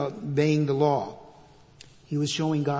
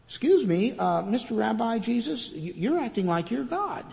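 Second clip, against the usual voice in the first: lightly acted, higher-pitched challenge; mock objection; 5 semitones higher than usual. Teachers of the law challenging Rabbi Jesus, mock objection. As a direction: politely interrupt with mock disbelief.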